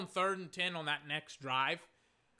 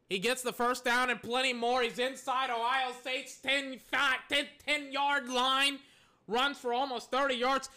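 higher, louder, stretched-out call of the run; excited play-by-play; 5 semitones higher, 4 dB louder than usual. Real, not acted. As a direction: call it like a live announcer as he breaks free. Live play-by-play of a big run.

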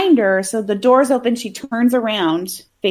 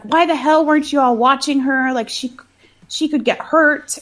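mildly panicked scolding, slightly raised pitch; retold freak-out; 4 semitones higher than usual. Mom scolding hospital staff over her girl, mock freak-out. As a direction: imitate an upset mother, lightly. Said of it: "so she freaks out".

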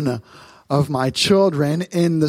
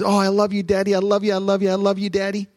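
lightly voiced gushing child, pitched up; little daughter gushing; 5 semitones higher, faster than usual. Father imitating his daughter greeting him, lightly higher. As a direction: play the excited little girl at the top of the stairs. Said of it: "and says".

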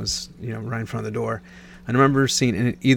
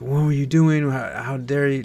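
a raised, panicky scold, half-performed; retold frantic scolding; 4 semitones higher than usual. Mother scolding the lost toddler, mildly frantic. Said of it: "she's frantic and hysterical".

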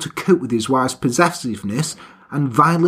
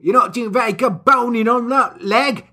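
lightly voiced coworker, raised pitch; a hint of a nagging coworker; mock coworker; 5 semitones higher than usual. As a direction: tease her about her boning. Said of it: "someone would be like".

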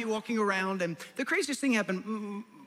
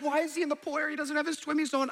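scolding wife; 8 semitones higher, faster than usual. Retold or imitated.

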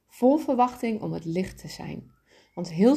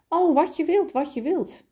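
much higher, louder eager cry; 10 semitones higher, 3 dB louder than usual. A narrator's reading. Little soul gladly agreeing to the favour, higher eager cry. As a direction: burst out gladly. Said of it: "riep de kleine ziel".

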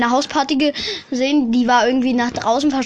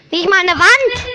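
higher and louder "Nicht mal eine Wand!"; emphatic repeat; 6 semitones higher, 4 dB louder than usual. Shown as a demonstration. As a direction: hammer the point home.

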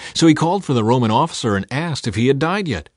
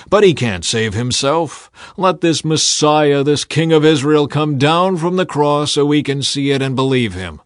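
scoffing; 5 semitones higher, 6 dB louder than usual. A narrator's reading. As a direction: spit out the words with contempt. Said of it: "they scoffed".

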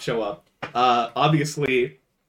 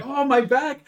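much higher, louder mock cry of pain; hammed-up yell; 13 semitones higher, 8 dB louder than usual. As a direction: overact getting hurt and call for the police. Fake injury crying for police.

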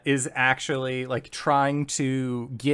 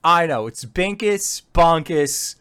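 goblin foreman; 4 semitones higher, 4 dB louder than usual. Acted. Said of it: "the foreman once again just says".

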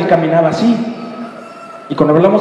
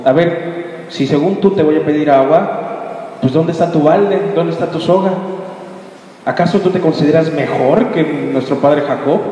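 sarcastic. Acted. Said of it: "racista e irónica, sarcástica".

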